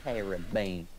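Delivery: Caribbean said as a correction, falling at the end; correcting Caribbean. Shown as a demonstration. Correcting a friend's word, Caribbean pronounced firmly. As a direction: sound out Caribbean without extra syllables. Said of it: "No, it's".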